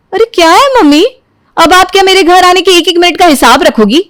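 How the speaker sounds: high, irritated snap at mom; annoyed retort. Acted. Daughter snapping at her mother. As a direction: brush off the nagging mother.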